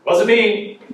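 put-on high, loud little-kid denial; imitating a small child's denial; child denying. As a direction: blurt it like a guilty toddler.

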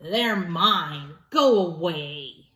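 lightly voiced grumpy pug, slowing on go away; a hint of a sulky grumble; grumbling Pig. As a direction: pug guarding his toys, mild grumble. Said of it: "Pig would just grumble".

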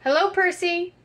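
high, sing-song hello; high pet talk. Pretend. Seeing if the toy cat is turned off, high pet talk.

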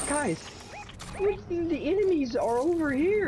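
high urgent call to teammates. Real, not acted. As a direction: call it out sharply. Calling teammates to enemies.

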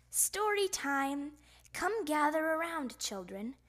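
put-on gather the children for story time; announcing. A narrator's reading. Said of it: "Miss Otterbottom announced".

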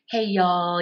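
lightly Southern, easy greeting; a relaxed hint of Southern drawl; soft and easy Southern accent. Shown as a demonstration. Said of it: "soft and easy like Southern".

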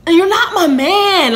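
loud, high, fast protest; indignant outburst. Retold or imitated. Acted angry quarrel with Mark.

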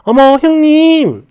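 sweet, slow, cheerful hello to her sister-in-law; mock sweet phone greeting; bright cheerful greeting. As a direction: answer the phone all pleasant. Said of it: "기분 좋게 밝게".

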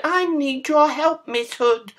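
high, pleading piggy squeal; pig crying out. A narrator's reading. Pig phoning Miss Hood for help, high pleading cry. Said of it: "Pig cried".

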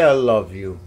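loud, eager prompt to the cat; loud coaxing prompt. Shown as a demonstration. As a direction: call it out loud so the cat copies.

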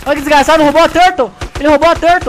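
loud outraged yelling; outraged shout. Real, not acted. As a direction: yell it, outraged. Outraged at the theft in game.

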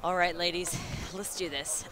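put-on cheering in an American accent; rally the team, American-style. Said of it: "In my American accent".

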